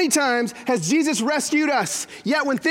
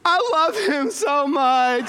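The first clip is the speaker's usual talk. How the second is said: dreamy daughter; 3 semitones higher, much slower than usual. Retold or imitated.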